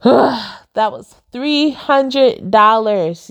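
sighing it out slowly, fed up; weary sigh over the cost; exasperated sigh. Real, not acted. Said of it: "I said three hundred dollars".

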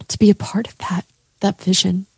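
soft, breathy podcast whisper. Real, not acted. Guest humbled by her vision, whispering. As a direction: hush it, full of awe. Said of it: "podcast whisper".

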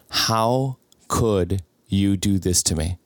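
slow, broken, hurt plea; slow wounded question to the girlfriend. Retold or imitated. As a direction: drag it out like the news just landed. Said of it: "are the words that came out of my mouth".

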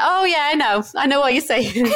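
put-on quoting an old lady while laughing; laughing quote. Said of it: "this lady was like".

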